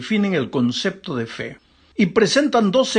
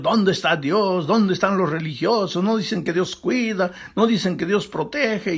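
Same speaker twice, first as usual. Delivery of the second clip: mock challenge, raised singsong questions; jeering imitation, pitched up; mocking scoffers; 4 semitones higher than usual. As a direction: imitate scoffers taunting believers, higher pitch. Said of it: "burlando de Dios".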